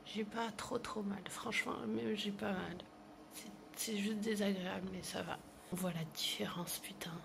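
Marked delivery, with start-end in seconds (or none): 0.0-5.4 talking through clenched teeth; jaw wired shut. Real, not acted. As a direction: speak without opening the mouth. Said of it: "donc je peux pas ouvrir la bouche".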